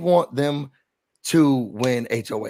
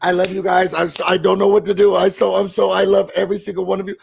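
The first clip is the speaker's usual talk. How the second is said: mimicking Chelsea; 4 semitones higher, 4 dB louder, faster than usual. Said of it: "I noticed this during a Double E".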